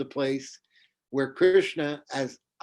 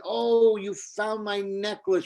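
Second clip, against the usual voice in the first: surprised; 7 semitones higher, slower than usual. Acted. Radharani caught out.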